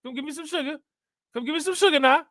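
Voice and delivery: high auntie voice, breaking into a laugh at the end; grandma or aunt. Retold or imitated. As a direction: coax a kiss from the grandkid. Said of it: "your grandma or your aunt".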